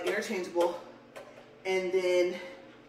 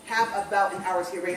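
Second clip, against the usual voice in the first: breathless from walking the treadmill; talking while short of breath. Real, not acted. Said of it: "I'm just out of breath this morning".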